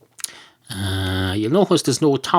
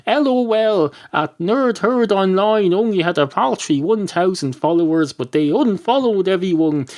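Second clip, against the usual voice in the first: lightly voiced, higher teenage mock read; mocking American girls; 5 semitones higher than usual. Podcaster reading the girls' tweet mockingly. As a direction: read it like a snide teen girl. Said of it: "a tweet from those American girls".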